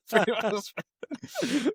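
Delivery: very high and slow, stretched out; drawn-out swoon. Pretend. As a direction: swoon over the band name, dragging each syllable. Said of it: "and he's like".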